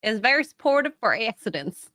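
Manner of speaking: a light imitation of an Alabama accent. Imitating Jeremy for a friend, light Alabama accent. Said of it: "wonderful accent, by the way".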